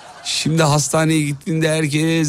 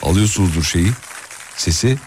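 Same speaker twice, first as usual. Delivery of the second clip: blocked nose; 5 semitones lower than usual. Real, not acted. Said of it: "Burnum tıkalı".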